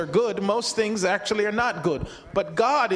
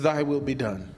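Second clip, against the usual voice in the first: sincere surrender; 6 semitones lower than usual. Shown as a demonstration. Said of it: "greatest statement any human person can say".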